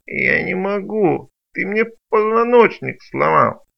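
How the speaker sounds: high, slow whining broken creature; whiny creature. Acted. Injured creature complaining. (плаксивое нытьё, выше и медленнее)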